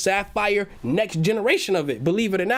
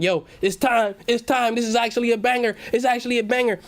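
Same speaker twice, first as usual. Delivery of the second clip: excited realization; 4 semitones higher than usual. Retold or imitated. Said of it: "I was like".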